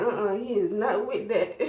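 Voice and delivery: laughing through the dentist's words; laughing quote. Retold or imitated. Retelling the dentist's refusal to viewers, laughing. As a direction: say it while laughing. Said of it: "He said".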